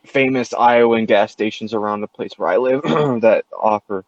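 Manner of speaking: words pushed through throat clearing; coughing while talking. Real, not acted. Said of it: "I had to say that while I was coughing".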